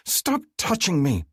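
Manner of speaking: high, slow voiced female bellow; bellowing woman. A narrator's reading. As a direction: bellow it into his ear. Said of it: "she bellows in my ear".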